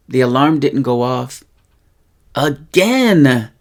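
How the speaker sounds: mild frustration, leaning on again; frustrated. Shown as a demonstration. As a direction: let a touch of exasperation land on again. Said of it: "you're expressing frustration".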